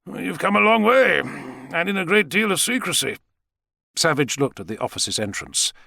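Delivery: high, deliberate character voice; probing Savage. Acted. Savage guessing why the president came, probing.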